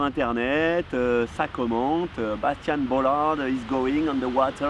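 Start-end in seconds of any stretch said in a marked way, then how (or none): 2.4-4.7 imitating the English live commentator in a thick French accent; self-mocking commentator call in French-accented English. Surfer mimics the live stream commentator, in French-accented English. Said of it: "mon super accent".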